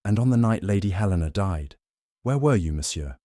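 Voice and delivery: lightly voiced Belgian detective, pointed; detective's pointed question; Poirot's question. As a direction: press the question home.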